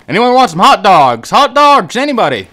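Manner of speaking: vendor call. Pretend. Joking hot dog vendor call.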